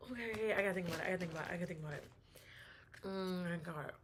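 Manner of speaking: talking while chewing popcorn; words around a mouthful; mouth full. Real, not acted. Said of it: "I'm eating Skinny Pop".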